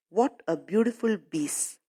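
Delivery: put-on mild foreign accent, piece said as "biece"; accented English. Teacher imitating the shoemaker's accented English. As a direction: say "What a beautiful piece." with a b sound for p, lightly accented. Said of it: "English spoken with his particular accent".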